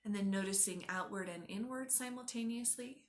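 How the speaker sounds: unhurried yoga nidra guide; guided meditation. Acted. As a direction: guide them gently inward, leaving space after each instruction.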